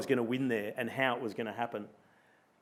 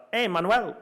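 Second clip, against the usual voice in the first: calling out in a hammed-up Spanish accent, higher and louder; 7 semitones higher, 4 dB louder than usual. Rider calls to a Spanish rival, Spanish accent. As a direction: hail him like one of his Spanish mates. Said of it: "in my best accent".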